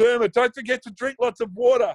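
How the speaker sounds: very high, frantic, fretting, fussing grandmother yell. Retelling Terry Gay yelling after Derma, imitating Terry Gay's frantic yell. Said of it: "almost like a um, frantic, fretting, Grandmother yells".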